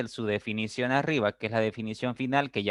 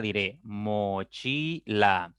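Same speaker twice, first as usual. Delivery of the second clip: plain; much slower than usual. Shown as a demonstration. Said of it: "Si yo pronuncio esta palabra".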